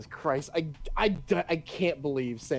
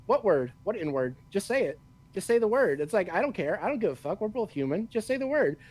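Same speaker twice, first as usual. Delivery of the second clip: teasing, pitched way up and pushy; mock-goading impression, voice raised high; goading Samuel L. Jackson; 7 semitones higher than usual. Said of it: "And he was like".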